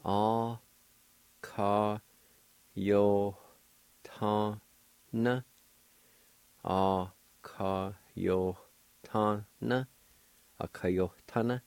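"A, ka, yo, ta, na" each syllable separate. Shown as a demonstration. Teacher sounding out a word for learners. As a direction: sound out "A, ka, yo, ta, na" step by step. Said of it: "there's a faint H sound".

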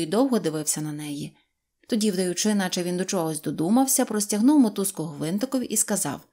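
usual speaking voice

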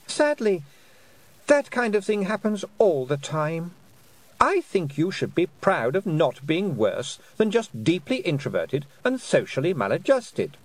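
silky, mocking fairy queen voice. Queen taunting Tiffany with a cool, mocking voice. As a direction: taunt her sweetly from above.

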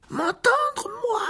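very high panicked squeak. A narrator's reading. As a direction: squeal it in frightened disbelief. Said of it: "dit Ron d'une voix plus aiguë qu'à l'ordinaire". (voix suraiguë, affolée)

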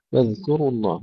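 واذكروا الله with a thin, light ك; light kaf. Shown as a demonstration. Teacher modelling for students, light kaf in واذكروا. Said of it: "نرقق الكاف أيضًا".

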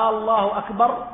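الله أكبر with a rise as if asking; questioning takbir. Shown as a demonstration. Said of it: "استفهامية".

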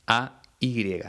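each letter of "A Y" named clearly and apart; deliberate spelling of "A Y"; spelled out. Shown as a demonstration. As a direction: spell out "A Y" one letter at a time. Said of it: "dice ay".

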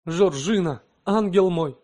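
high, loud moved exclamation; deeply moved cry. A narrator's reading. Husband moved by his wife's devotion: high, loud cry. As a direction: cry out, overcome with feeling. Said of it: "вскричал Альмир, глубоко тронутый".

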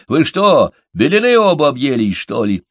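high, loud incredulous question; surprised disbelief. A narrator's reading. Малыш scoffs at both friends' theory, astonished. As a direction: challenge them, taken aback. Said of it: "удивился малыш".

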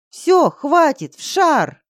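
high, loud, very slow order; ordering the dragon back into the ball; commanding shout. A narrator's reading. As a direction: shout the command, drawing each word out.

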